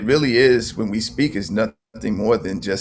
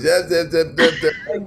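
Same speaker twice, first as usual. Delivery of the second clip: put-on high, loud baby babbling; baby babble; 7 semitones higher, 4 dB louder than usual. Mother imitating her baby daughter's babble, high and loud. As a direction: babble like a toddler trying to talk. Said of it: "and she starts".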